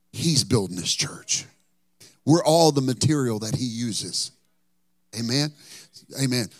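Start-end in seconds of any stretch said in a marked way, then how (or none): 0.1-1.5 He's leaned on, the whole line slow and deliberate; slow down and set He's apart as the true builder; emphatic, contrasting He's; stress on He's. Real, not acted. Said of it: "I want to be clear".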